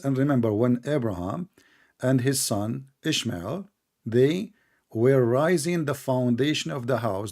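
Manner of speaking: slow, deliberate verse reading; measured recitation from a translation; reading scripture aloud. Real, not acted. Reads Quran verse aloud.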